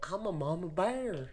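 slow, lightly voiced mama; a hint of a proud mom. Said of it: "I just did your mom's voice".

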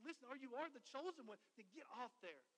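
imitated criminal's taunt, starting loud and easing off; preacher acting out a jeering convict; mocking. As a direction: needle him with a sarcastic demand. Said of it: "begins to mock him".

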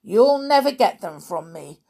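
loud refusal; defiant call. Acted. Mister Spells defying the giant. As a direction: call back firmly.

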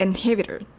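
インヒビター with the tongue tip behind the front teeth on ン; in-hi-bi-tor, English style; English inhibitor. Shown as a demonstration. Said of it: "舌先を前歯の裏につけて発音します".

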